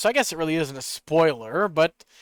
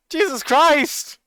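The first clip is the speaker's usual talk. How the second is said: drawn-out exclamation; 8 semitones higher, slower than usual. Real, not acted. Reacting to the elf's face.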